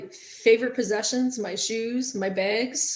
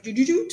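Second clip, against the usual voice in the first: imitating beeps; 4 semitones higher, 4 dB louder than usual. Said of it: "it makes this, like".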